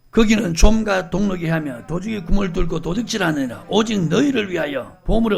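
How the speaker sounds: 크고 힘찬 성경 낭독; 회중을 이끌듯 큰 소리로 읽기. Acted. Scripture read aloud. (힘주어 성경 말씀을 읽는 목소리)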